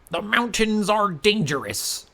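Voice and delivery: a lightly voiced village leader warning.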